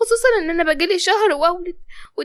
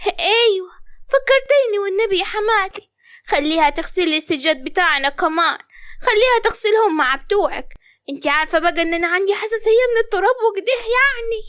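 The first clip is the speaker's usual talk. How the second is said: sarcastic. Acted. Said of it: "وقالت بتريقة".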